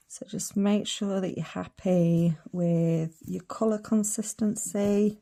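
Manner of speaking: put-on hillbilly Texas accent. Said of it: "I don't know why I'm talking like this".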